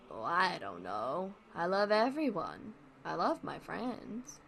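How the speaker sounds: a lightly voiced Wally, dry and unbothered; deadpan Wally. Wally shrugging off romance questions, deadpan. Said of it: "he's deadpan a lot. That's why I'm talking like that".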